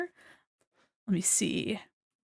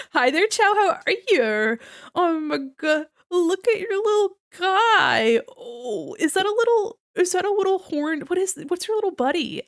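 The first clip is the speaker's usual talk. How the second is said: gushing coo; 8 semitones higher than usual. Real, not acted. Streamer greeting Chow and the little buddy, gushing coo. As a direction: coo over someone's adorable little pet.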